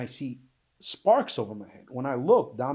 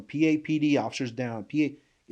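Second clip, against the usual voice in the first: mock yelling for help; 3 semitones higher, 3 dB louder than usual. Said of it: "So I just kept yelling".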